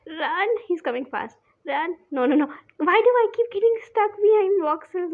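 panicked high shouting; yelling at the racetrack. Real, not acted. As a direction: yell in a real panic. Chased by the beast.

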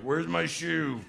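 loud, high cry of someone helplessly lost; hammed-up cry for help; distressed wail. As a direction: mock-desperate wail, drawn out at the end. Lost, broken man wailing for help.

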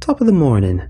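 lightly put-on squeaky Irish greeting; mild squeaky voice. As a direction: narrator hams a squeaky greeting to granddad. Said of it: "I said in a squeaky voice".

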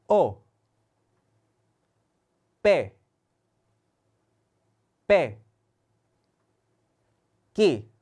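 Indonesian alphabet read slowly and clearly; letter names read aloud. Shown as a demonstration. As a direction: read each letter twice for repeating. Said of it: "혀를 굴리면서 발음을 한번 해보세요". (인도네시아어 알파벳 또박또박 읽기)

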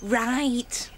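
unvoiced breathy whisper. Lover agreeing to the secret meeting, in a whisper. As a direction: say it under your breath.

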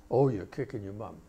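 imitating a mother, slightly deepened voice. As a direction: drop the pitch a little, mock-ironic. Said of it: "she says in a deeper voice".

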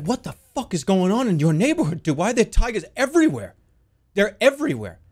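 incredulous outburst, pitch jumping up; alarmed disbelief. Retold or imitated. To a friend about tigers in their neighborhood, alarmed disbelief. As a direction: react in mock alarm.

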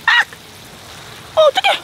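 sudden high alarmed yelp; startled cry. Real, not acted. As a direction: caught off guard, panicked. Beer can mishap.

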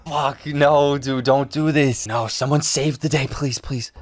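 anguished plea. Real, not acted. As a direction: beg them not to do it. Begging the show.

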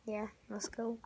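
soft unvoiced whisper. Real, not acted. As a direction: breathe it out quietly. Starting room tour.

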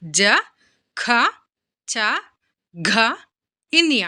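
జ, ఖ, చ, ఘ, ఇన్య as isolated sounds with pauses; letter-by-letter recitation. Shown as a demonstration. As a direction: read జ, ఖ, చ, ఘ, ఇన్య one by one, ఖ and ఘ aspirated. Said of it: "మళ్ళీ ఒకసారి చదువుదామా".

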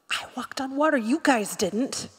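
aggrieved victim. Acted. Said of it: "the response of a victim".

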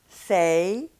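"Say" gliding from e to i; relaxed gliding "Say"; English side of the contrast; English diphthong. Shown as a demonstration. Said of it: "In English".

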